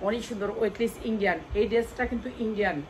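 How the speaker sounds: usual speaking voice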